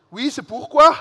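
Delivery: put-on loud, high Alsatian accent, called out; a loud Alsatian housewife shouting from her window. Alsatian lady shouting at boys from her window, in a loud Alsatian accent. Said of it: "avec un bon accent alsacien".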